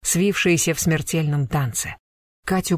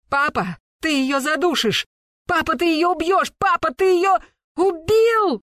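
put-on piercing, high child voice rising to a hysterical squeal; child's shriek; 12 semitones higher than usual. A narrator's reading. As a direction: scream in an alien child's voice. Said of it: "пронзительно и жутко, не своим, чужим, высоким, детским, тонким голосом". (пронзительный детский визг)

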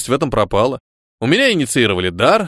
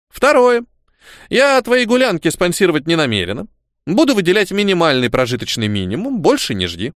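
higher stern granny voice; old woman laying down the rules; stern grandmother; 5 semitones higher than usual. Acted. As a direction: scold him like a strict old grandmother.

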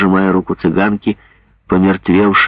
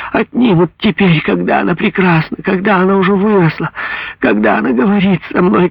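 much higher, crying anguished lament; a mother refusing to lose her child; higher and higher, desperate wailing mother; 9 semitones higher than usual. Acted.

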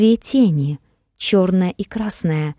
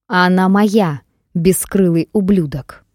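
triumphant roar; 3 dB louder than usual. Acted. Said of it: "ликующе взревел".

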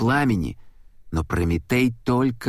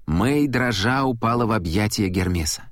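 usual speaking voice

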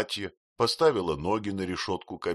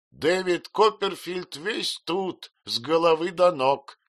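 louder, higher, slow scornful exclamation; exclaiming aunt; 10 semitones higher, 6 dB louder, slower than usual. A narrator's reading. Aunt Betsey mocks the late husband, exclaiming loudly. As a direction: throw it out in exasperated scorn. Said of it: "воскликнула мисс Бетси".

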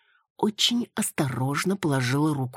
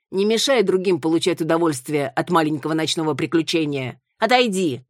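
louder, sharper on Отойди; annoyed; 2 semitones higher, 4 dB louder than usual. Acted. A tourist telling Маруся to step away, annoyed and louder. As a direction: shoo her away. Crowd tells her to move.

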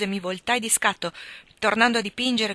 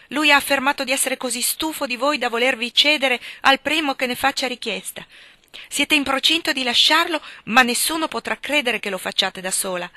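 louder, higher, insistent; heated pleading; 4 semitones higher, 6 dB louder than usual. A narrator's reading. Hargrave pleads heatedly with Helen, louder and higher. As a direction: push hard, voice climbing.

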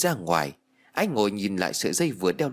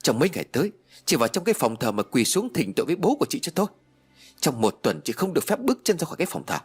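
higher, fast stern commands; angry ordering; 5 semitones higher, faster than usual. Acted. Mother-in-law sentencing Duyên to kneel, angry ordering. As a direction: lay down the punishment briskly.

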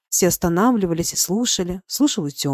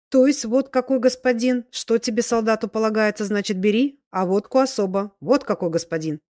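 emphatic peasant praise, starting higher and settling; lightly voiced tipsy old man, admiring; 4 semitones higher than usual. Old soldier convinces crowd of general's worth, emphatic praise. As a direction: drive the point home with hearty conviction.

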